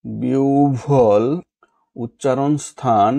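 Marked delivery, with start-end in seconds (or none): 0.1-1.2 বিহ্বল slowly as "biubhol"; slow বিহ্বল with হ্ব as "ubh"; correct pronunciation. Shown as a demonstration. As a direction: stretch বিহ্বল into "biu-bhol". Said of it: "সঠিক উচ্চারণ কোনটি".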